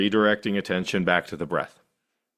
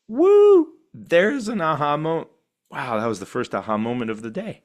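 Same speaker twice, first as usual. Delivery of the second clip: high, loud whoop of joy; cheering; 6 semitones higher, 3 dB louder than usual. Pretend. Meditator cheering her first aha moment of the day. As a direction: celebrate like scoring a goal.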